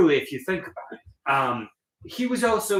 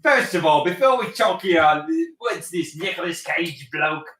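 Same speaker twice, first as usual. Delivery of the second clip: put-on British accent. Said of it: "British accents only".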